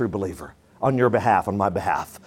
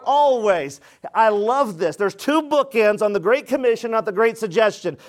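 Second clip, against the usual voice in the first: raised-pitch, emphatic sermon delivery; preaching; 8 semitones higher than usual. Real, not acted. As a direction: preach it out to the congregation. Preaches the Great Commission.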